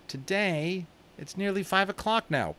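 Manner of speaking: high, dismayed protest; boy dismayed at his father's deadline. A narrator's reading. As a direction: object in dismay. Omri dismayed.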